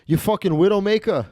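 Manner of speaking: lightly voiced Italian-American gambler cursing the dealer; mock insult with a dropped final R; Stefano. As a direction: imitate an Italian-American sore loser. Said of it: "He started calling the dealer".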